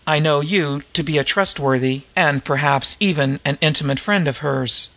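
measured, articulate audiobook reading; story narration. A narrator's reading. Gentleman pleading to help the White Mall, measured story reading. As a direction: read the story aloud with careful diction.

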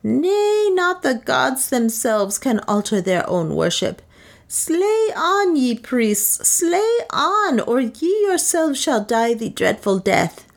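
high, ringing priest commanding the sacrifice; stern high priest. A narrator's reading. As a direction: pronounce doom on the priests.

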